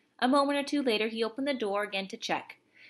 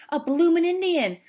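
Cockney soldier voice; 3 semitones higher, 7 dB louder than usual. A narrator's reading. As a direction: play the astonished British private with gusto.

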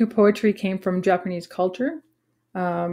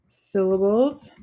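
slow counting; much slower than usual. Shown as a demonstration. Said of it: "here is five".

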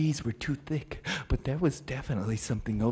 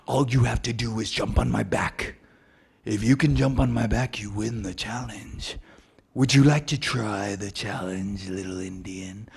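taunting elk voice; 4 semitones lower than usual. Acted.

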